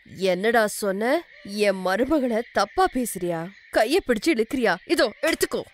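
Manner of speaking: indignant rebuke rising at the end; outraged. Acted. Mother-in-law to milkman who insulted her daughter-in-law, outraged. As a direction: confront him angrily, building to a blow.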